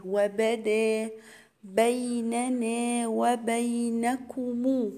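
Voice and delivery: drawn-out tajweed chant, each syllable held; slow Quran recitation. Shown as a demonstration. Teacher recites the verse to students as a slow chant. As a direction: recite it slowly for the students, holding the long vowels. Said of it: "الكاف والميم هنا مضمومين".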